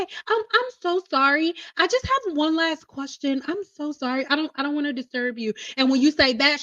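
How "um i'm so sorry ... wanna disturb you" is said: soft, over-apologetic caller; sorry to bother, soft and quick; apologetic sweet voice. Shown as a demonstration. To the stylist, a soft apologetic phone voice. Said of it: "white girl voice".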